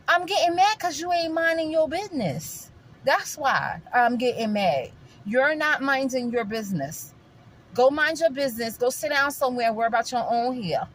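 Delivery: acted annoyance, firm and emphatic; indignant clap-back. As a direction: snap back at someone meddling in your business. Imagined argument with a critic.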